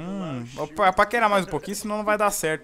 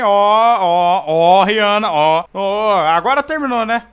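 shouting; 9 dB louder, slower than usual. Acted. Shouting after intruders.

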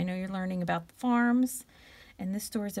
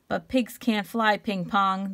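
weary sigh; 4 dB louder, slower than usual. Acted. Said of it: "the animals sighed".

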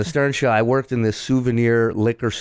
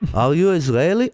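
lightly imitated Israeli accent; mock Israeli accent, questioning; 3 semitones higher than usual. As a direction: mimic a customer's Israeli-accented English. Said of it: "he starts with his English".

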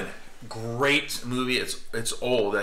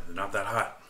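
talking funny from spicy heat; words strained by a burning mouth; 3 semitones lower, 5 dB quieter than usual. Real, not acted. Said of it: "How come you're talking funny?".

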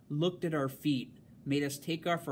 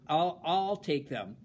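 slow, firm and a bit louder; loud announcement; 3 semitones higher, 4 dB louder than usual. Acted. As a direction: declare it to the whole table. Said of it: "Jenny announced loudly".

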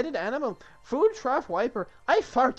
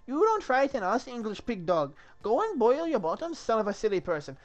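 high, loud mock French insults; taunting French accent; 5 semitones higher, 5 dB louder than usual. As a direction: jeer at the English in hammed-up French accent. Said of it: "I got the French accent down".

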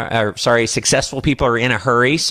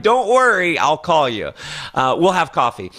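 reassuring; 3 semitones higher than usual. Shown as a demonstration. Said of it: "almost like me reassuring them".

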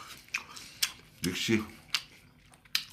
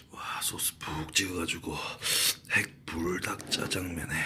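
whispering. Acted. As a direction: breathe it like a secret. Mukbang whispered food narration.

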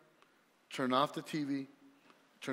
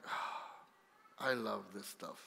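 relishing the music; 7 semitones lower, 8 dB quieter than usual. Retold or imitated. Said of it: "and I'm like".

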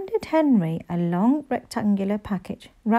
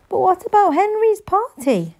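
higher, anxious mum; Mum's dismay; 11 semitones higher, 5 dB louder than usual. A narrator's reading. Mum worried about the banned party, higher. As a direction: plead it as a worried mother.

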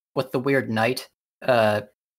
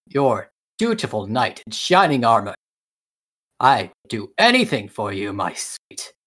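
gallant knight. Acted. Knight swears service to the princess, lightly eager. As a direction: declare it with puffed-up devotion. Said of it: "the knight speaks".

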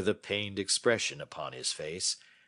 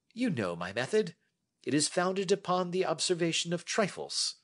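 lightly voiced Holmes; 3 semitones higher than usual. Holmes inviting Watson to sit and listen, lightly voiced. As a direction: hold forth like a confident detective.

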